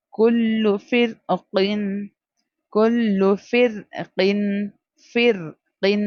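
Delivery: ra in فر read light and thin. Shown as a demonstration. Teacher drilling a Quran lesson, thin light ra in فر. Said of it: "اس کو باریک پڑھنا ہے".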